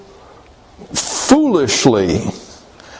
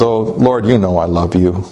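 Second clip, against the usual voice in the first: low, subdued reply; understated acted hurt; 5 semitones lower than usual. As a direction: say it low, mildly wounded. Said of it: "Peter is hurting".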